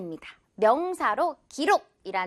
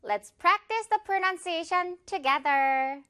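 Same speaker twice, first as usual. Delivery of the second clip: slow clear invitation; 4 semitones higher, much slower than usual. Shown as a demonstration. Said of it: "invites practice".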